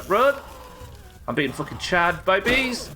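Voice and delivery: panicked shouting while fleeing; being chased. Real, not acted. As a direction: yell in real panic, running from bees. Fleeing a swarm of bees.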